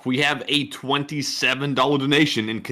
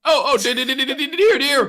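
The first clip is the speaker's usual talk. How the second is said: stuttered oh dear; 12 semitones higher, 3 dB louder than usual. Pretend.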